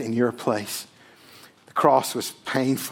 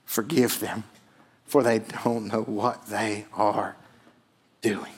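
softer, slow, almost breathed; hushed Jesus; 4 semitones lower, 5 dB quieter, slower than usual. Acted. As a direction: give the words like a dying plea. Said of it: "Jesus looked at them and said".

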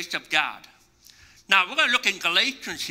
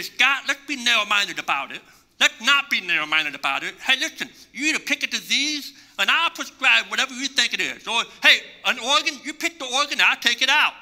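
a lightly voiced sloppy doctor, pitched up and rising to a shout; mocking careless doctor; 3 semitones higher than usual. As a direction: mimic a careless doctor offering anything, ending in a mock shout. Mock careless doctor quoted.

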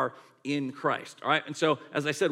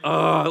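loud drawn-out acted groan; retold groan of embarrassment; humbled groan; 8 dB louder than usual. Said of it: "like, incredibly humbling".

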